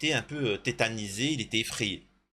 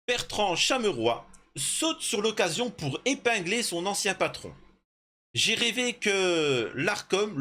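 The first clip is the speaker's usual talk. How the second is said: higher, measured report-reading voice; article lu à voix haute; 6 semitones higher than usual. Real, not acted. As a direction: read it out like a TV report. Reads an article aloud. (lecture de reportage, voix plus haute)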